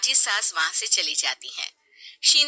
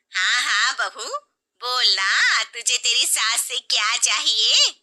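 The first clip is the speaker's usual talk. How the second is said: louder, egging her on; pushy aunt; 3 semitones higher, 3 dB louder than usual. Acted. Aunt urging her bride to demand a gift, loud. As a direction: urge her to ask.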